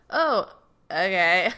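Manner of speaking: a deflated little oh okay; mock surprise; taken aback. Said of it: "And I'm like".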